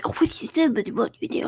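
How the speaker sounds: high mock voice of the friends teasing. Imitating Raul and Kelvin's teasing in a high mock voice. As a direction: parody their nagging in a put-on high voice. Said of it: "they were like".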